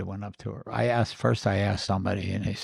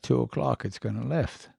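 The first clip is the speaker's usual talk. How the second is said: lightly imitated Irish brogue; 3 semitones higher than usual. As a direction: retell it with a touch of brogue. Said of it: "with his brogue".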